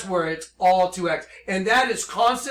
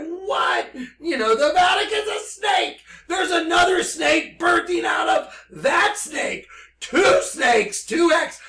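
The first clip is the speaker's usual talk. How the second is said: excited shouting; 9 semitones higher, 4 dB louder than usual. Real, not acted. Shouting the revelation.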